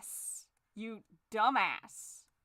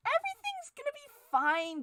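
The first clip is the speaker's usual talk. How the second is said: manic cheer. Acted. Manic cheer bit repeated.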